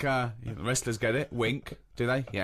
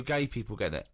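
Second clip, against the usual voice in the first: incredulous doctor quote; 4 semitones lower than usual. Retold or imitated. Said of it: "Did a doctor really say to you".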